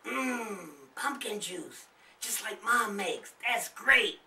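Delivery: put-on excited kids. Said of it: "Charlie and Darlene exclaimed".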